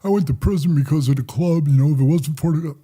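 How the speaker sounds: put-on poor-me moan; mock whining. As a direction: mimic someone whining about their lot. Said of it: "I'm not sitting there whining, crying".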